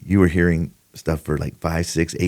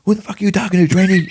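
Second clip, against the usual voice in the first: mock angry yell, much higher; angry retort; 13 semitones higher, 4 dB louder, faster than usual. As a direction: bark it at the trainee like a grizzled senior deputy. Senior deputy snaps at trainee.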